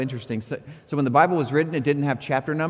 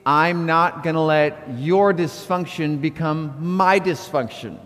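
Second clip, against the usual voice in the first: slow group recitation; slower than usual. Shown as a demonstration. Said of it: "say out loud with me".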